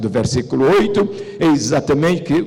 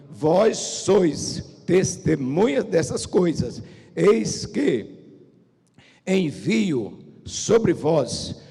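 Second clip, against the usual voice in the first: slow, solemn reading with long pauses; scripture reading; slower than usual. Acted. Preacher reads Jesus' last words to the congregation, slowly and solemnly. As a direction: weigh each phrase of the verse slowly.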